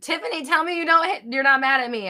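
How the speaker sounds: high, loud pleading; worried high-pitched appeal; anxious plea. Real, not acted. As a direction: urgently beg for reassurance. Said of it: "I need to know".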